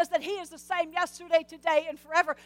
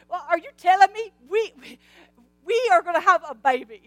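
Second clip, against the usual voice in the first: astonished Zacharias; 5 dB louder than usual. Acted. Astounded Zacharias.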